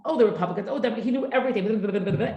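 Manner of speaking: high, laughing mock skim-reading; imitating a husband's quick skim of the news; speed-reading mumble. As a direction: rattle through it like flipping a paper, giggling. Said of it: "he'd go".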